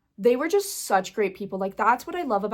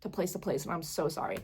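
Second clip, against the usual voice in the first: soft, lower, near-tearful voice; holding back tears; 3 semitones lower, 6 dB quieter than usual. Real, not acted. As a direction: keep it small so you don't cry. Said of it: "I don't wanna cry".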